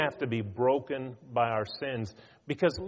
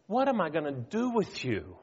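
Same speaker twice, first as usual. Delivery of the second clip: frustrated; 3 semitones higher than usual. Retold or imitated. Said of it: "they just say".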